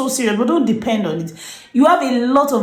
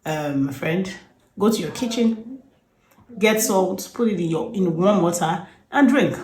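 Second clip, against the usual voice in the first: soft, even reassuring advice; calm; 3 dB quieter than usual. Retold or imitated. Herself calmly advising the panicked friend, soft and even. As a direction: settle her down gently. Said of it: "So I just calmly said".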